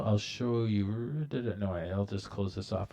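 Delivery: ordinary delivery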